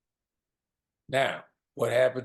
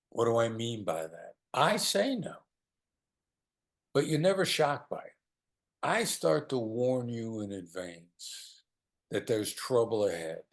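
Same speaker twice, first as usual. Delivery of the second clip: ordinary delivery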